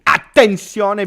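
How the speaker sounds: Attenzione, shouted slowly; loud call. Real, not acted. Loud slow Italian call for attention.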